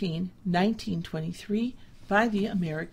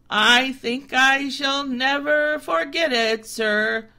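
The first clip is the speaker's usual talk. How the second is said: higher, eager humble reply; a goat trying to please; polite humbled goat; meek goat; 5 semitones higher, 9 dB louder, slower than usual. A narrator's reading. Goat promises.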